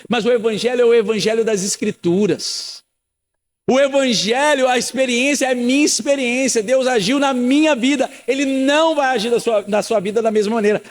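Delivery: ordinary delivery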